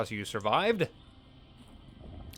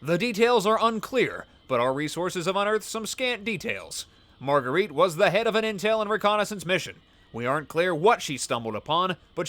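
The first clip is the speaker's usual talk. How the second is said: exaggerated news anchor; 3 semitones higher than usual. Shown as a demonstration. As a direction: lean into the anchorman read. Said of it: "I sound like a news anchor".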